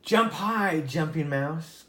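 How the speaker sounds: a light frog's command. Acted. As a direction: give the order firmly. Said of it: "commanded Magic Frog".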